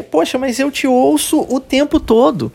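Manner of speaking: high-pitched, protesting retort; mock protest. Acted protest, translated. (protesto encenado, com voz mais aguda)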